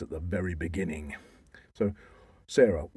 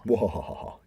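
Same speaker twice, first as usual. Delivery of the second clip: spelled evil laugh. Pretend. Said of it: "Do you want to go do a mwahahaha".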